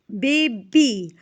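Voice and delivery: put-on Baby split into two beats, "bay-bee"; syllable by syllable. Shown as a demonstration. Teacher has students count syllables, Baby said in two clear parts. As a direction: sound out Baby for clapping, each syllable separate. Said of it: "Say each word, clap and count the syllables".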